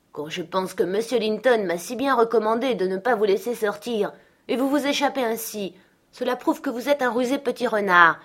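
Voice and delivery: réprimande appuyée, un peu plus haute; Hélène sermonne Miss Katy; gouvernante fâchée. Acted. Hélène gronde Catherine. (gronderie ferme et modérée)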